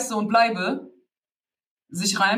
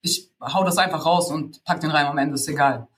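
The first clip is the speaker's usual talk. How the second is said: mildly acted couldn't-care-less tone, sinking lower; ignorant attitude; 3 semitones lower than usual. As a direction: toss it off with lazy indifference. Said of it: "so eine ignorante Haltung".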